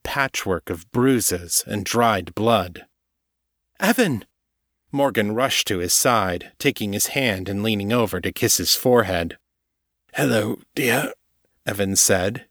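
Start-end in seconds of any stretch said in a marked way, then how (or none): 3.8-4.2 a higher, startled call of his name; alarmed cry. Acted. Morgan finding her wounded friend on her bed, a startled high call. Morgan finds him hurt. 10.1-11.1 a lightly voiced, faint, injured man; a hint of a weak wounded greeting; faint and shaky. Evan greeting Morgan from the bed, lightly voiced as faint. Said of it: "his voice faint and shaky".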